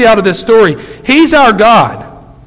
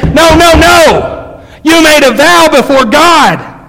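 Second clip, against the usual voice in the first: slow, raised no no no; held-back scream; 7 semitones higher, slower than usual. Retold or imitated. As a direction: plead with them not to quit. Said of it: "I want to scream in my office".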